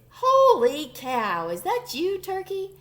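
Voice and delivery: loud astonished pig; surprised. A narrator's reading. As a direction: exclaim it in amazement.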